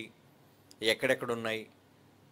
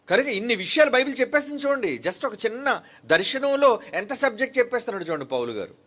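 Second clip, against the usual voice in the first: fervent preaching; 8 semitones higher, 4 dB louder, faster than usual. Real, not acted. Preacher stirs up congregation.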